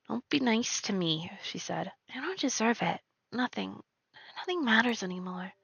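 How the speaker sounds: soft, withdrawn and hopeless; quiet despair. Acted. Girl telling grandmother not to be kind, soft and despairing. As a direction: turn away and murmur it.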